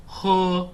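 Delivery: 喝 with unrounded back vowel; Mandarin 喝. Shown as a demonstration. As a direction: say 喝 with spread lips, high. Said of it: "I've got that sound right".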